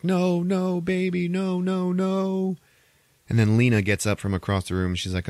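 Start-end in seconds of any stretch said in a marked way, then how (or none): 0.0-2.6 put-on high, anguished no, no, baby; anguished mom. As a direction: plead over a dead child, pitched high. Mother finds dead daughter.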